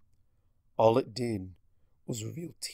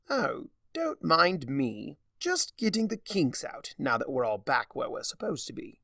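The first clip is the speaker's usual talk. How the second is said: Discord voice; 4 semitones higher than usual. Acted. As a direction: savour each word like a smug trickster. Discord stretches on the chandelier.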